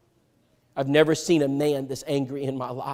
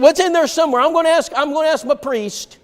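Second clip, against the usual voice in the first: high, louder, squirming excuse; mock high evasive voice; 11 semitones higher, 4 dB louder than usual. Friend deflecting to his priest, high mock voice. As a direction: let the voice climb as he wriggles out. Friend dodging again, retold.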